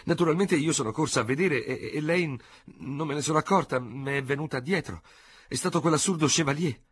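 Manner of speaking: high, flustered society lady rattling on; agitated older lady. A narrator's reading. Madame Léonie voiced by narrator.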